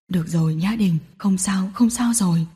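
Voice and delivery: low, soft soothing murmur; calm her down gently; comforting. Acted. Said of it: "an ủi". (giọng trầm dịu an ủi)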